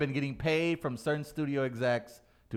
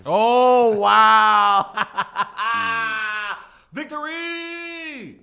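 whooping and laughing, high and loud; victory whoop; 10 semitones higher, 13 dB louder, much slower than usual. Real, not acted. Winner laughing and whooping at his victory, gleeful shout. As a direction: crow over the win with a laughing shout.

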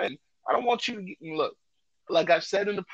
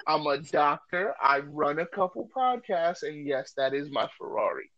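mocking replay of brag. Host replaying what the woman heard, mild mock. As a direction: replay the brag with a hint of mockery. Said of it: "What did she hear?".

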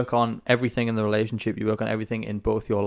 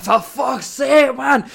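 much higher, louder, slow mock rage; mock angry outburst; 8 dB louder, much slower than usual. Host imitating Luke raging at MailChimp, high loud mock rage. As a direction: explode like a man fighting his laptop. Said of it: "he will kick off and he'll be like".

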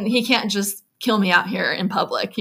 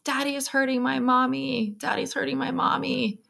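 higher, softer retold child voice; lightly voiced child; 6 semitones higher, 5 dB quieter than usual. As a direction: quote a small child, pitched up and quiet. Retells a child's frightened words.

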